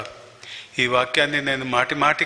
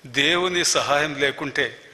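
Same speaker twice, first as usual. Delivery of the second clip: slow earnest preaching; slower than usual. Acted. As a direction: draw each phrase out slowly, weighty and earnest. Preaching the lesson slowly.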